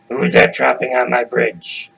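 slow troll challenge; menacing troll. Acted. Troll challenges biggest goat on bridge, slow and threatening. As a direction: demand it slowly like a bridge troll.

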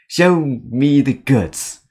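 slow, stretched-out playful demand; drawn-out demand. Acted. Acting out a meme's demand to see the goods, slow and drawn out. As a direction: stretch each word out slowly.

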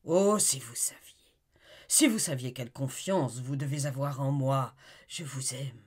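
ardent, rising to a cry on her name; impassioned lover. Acted. Olivier declaring his love to Amy, ardent. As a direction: pour out his devotion to her.

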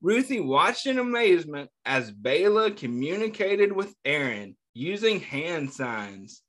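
put-on reading a picture book aloud to kids, a touch lively; story narration. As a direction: tell the story gently to a class of children. Teacher reads picture book aloud.

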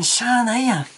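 しゃあないやん high, in Osaka accent; Osaka dialect. Shown as a demonstration. Teacher contrasting with standard Japanese, high Osaka accent. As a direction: lift it into Osaka intonation. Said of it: "と、大阪弁では言います".

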